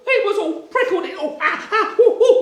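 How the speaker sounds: high, loud ooh-ah yelps; comic pained yelping. A narrator's reading. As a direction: narrate through squeals of mock pain. Bunny pricked by porcupines.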